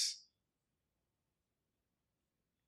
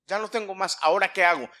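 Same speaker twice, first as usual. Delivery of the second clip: acted helpless question; 4 semitones higher, 5 dB louder, faster than usual. Acts warrior out of arrows, first take.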